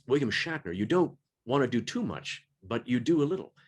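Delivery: halting, lightly voiced starship captain impression; a hint of a famous actor's phrasing, broken by pauses; William Shatner. Shown as a demonstration. Narrator showing how to play Kirk lightly, a touch of Shatner. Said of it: "getting to do, uh, William Shatner".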